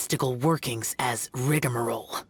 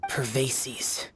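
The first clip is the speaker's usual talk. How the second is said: a soft whispered Pervases; whispered name; 3 dB quieter than usual. Acted. Mentor whispering a fallen comrade's name on hearing news. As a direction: breathe the name of a lost friend.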